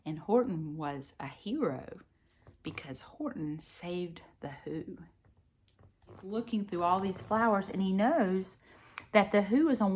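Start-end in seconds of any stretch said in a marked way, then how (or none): 2.6-5.0 whispering. Real, not acted. Reading story softly to child.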